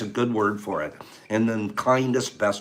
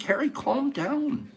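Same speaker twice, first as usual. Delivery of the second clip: retold scolding; 11 semitones higher than usual. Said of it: "I'm like".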